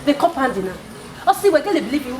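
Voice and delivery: shouting over him, fed up; angry loud quarrel. Acted. Woman shouting at her neighbour in the compound, loud and angry. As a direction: yell it out in exasperation.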